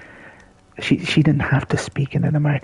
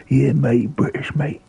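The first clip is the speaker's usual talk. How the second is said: light mock West End London accent, cheeky; mock British accent; slower than usual. Mocking Christian Bale with a cheeky West End London accent. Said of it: "kind of brutish sort of, uh, West End accent".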